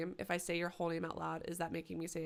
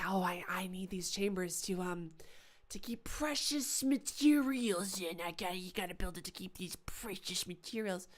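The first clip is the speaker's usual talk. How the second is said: mock Belknap. Voicing Mister Belknap's excuse.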